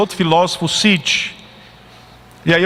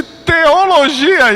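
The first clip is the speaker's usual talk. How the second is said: drawn-out, higher scoffing question; scornful disbelief; 11 semitones higher, 4 dB louder, much slower than usual. Retold or imitated. Professor scoffing at the student's theology degree, higher and drawn out. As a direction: stretch it out as if it's absurd. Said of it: "E ele tratou assim".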